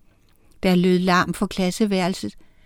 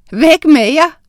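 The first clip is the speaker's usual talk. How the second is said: playful shooing; 7 semitones higher, 8 dB louder than usual. A narrator's reading. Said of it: "lå hun".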